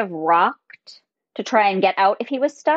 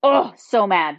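ordinary talk

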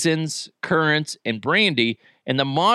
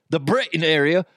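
put-on a first light stab at a British accent; mock British accent; 2 semitones higher than usual. Host addressing listeners from Britain, mock British accent. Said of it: "trying to do their, their accents".

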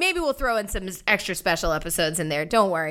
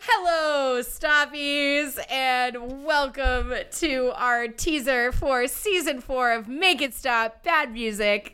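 fake crying; 5 semitones higher, slower than usual. Crying mock intro.

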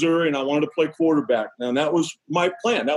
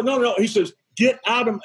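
retelling grandpa's anger in a raised voice; half-acted angry grandfather, pitched up; mild mock anger; 5 semitones higher than usual. A grandpa ordering the Dodgers scouts out, mildly mock angry. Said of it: "He gets mad".

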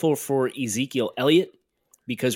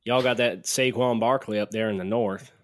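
put-on Southern accent. Co-host obliging with an impersonation, Southern accent. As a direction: do a casual Southern accent on request. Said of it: "There's your, your Southern accent".

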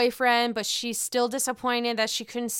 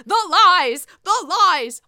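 loud, higher dramatic cry; imitating Candy; 7 semitones higher, 8 dB louder, slower than usual. Quoting Candy, a loud dramatic higher cry. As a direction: belt it out like a drama queen. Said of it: "Or as Candy would say".

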